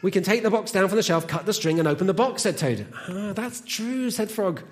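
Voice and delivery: animated storytelling with deliberate pauses; children's story reading. Acted. Reads a children's story aloud.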